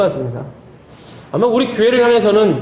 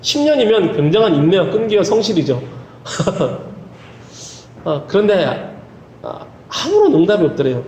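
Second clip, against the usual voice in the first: usual speaking voice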